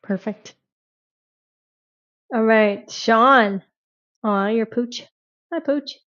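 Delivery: ordinary talk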